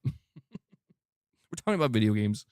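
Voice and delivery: laughing, slowed right down; slow laughing emphasis. Shown as a demonstration. Repeating it to a critic, slow and laughing. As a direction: lean on it with a chuckle, slowly.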